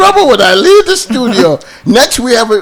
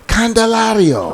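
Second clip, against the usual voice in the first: Spanish accent; 4 dB quieter, slower than usual. Real, not acted. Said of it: "Did it with the accent".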